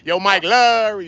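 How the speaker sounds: "Larry" stretched high with a slurred ending; drawn-out LARRY. Shown as a demonstration. Streamer playing on a viewer's name, drawn-out slurred call. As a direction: hold the end of "Larry" in a high holler. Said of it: "You gotta say it like that".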